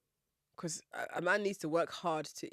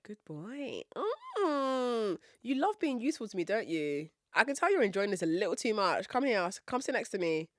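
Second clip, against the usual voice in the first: flirty; 3 semitones higher than usual. Retold or imitated. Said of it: "that's my way of flirting with white men".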